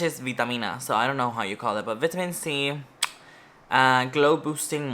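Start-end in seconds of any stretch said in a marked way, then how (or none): 0.2-0.8 "vitamina" said the Spanish way, vee-tah-MEE-nah; Spanish pronunciation. Shown as a demonstration. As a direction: stress the MI of "vitamina" with pure Spanish vowels. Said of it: "In Spanish".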